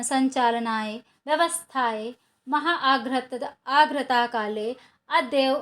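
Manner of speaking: measured, careful reading for pupils to repeat; slow Sanskrit recitation. Shown as a demonstration. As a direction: pronounce each word slowly and clearly. Reads pronunciation passage for practice. (धीमा, स्पष्ट संस्कृत पाठ)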